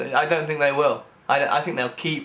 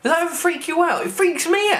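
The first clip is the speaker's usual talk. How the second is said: mock freaked out; 13 semitones higher than usual. Mock alarm at creepy ads.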